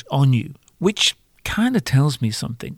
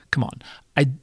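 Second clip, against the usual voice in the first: whispered aside; breathy hushed confession; 4 dB quieter, faster than usual. Real, not acted.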